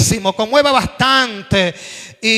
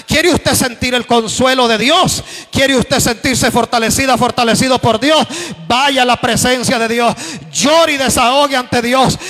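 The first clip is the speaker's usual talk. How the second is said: rising sermon appeal. Acted. Preacher calling the congregation to pray, building in force. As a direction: urge them toward God with growing force.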